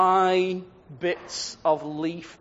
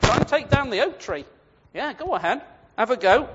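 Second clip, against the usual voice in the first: mocking dare; 5 semitones higher than usual. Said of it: "it's like he laughs at it".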